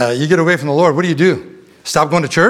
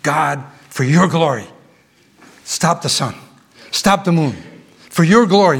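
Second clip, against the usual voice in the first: voicing Joshua's prayer. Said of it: "His, his prayer was completely unselfish".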